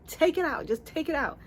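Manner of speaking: high, distressed retold demand; hammed-up panic, reliving the moment; near-tears dismay. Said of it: "I wanted to cry".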